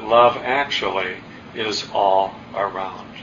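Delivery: measured reading with long pauses between phrases; reading lines aloud. Acted. Speaker reads film's opening lines to the audience, measured reading aloud. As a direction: let each phrase land, then pause.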